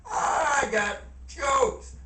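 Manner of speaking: laughing through the words, slow. Real, not acted. Laughing at his own joke to viewers. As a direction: crack up at your own joke.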